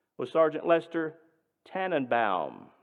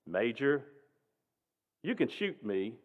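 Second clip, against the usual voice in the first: booming baritone. Retold or imitated. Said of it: "booming baritone voice".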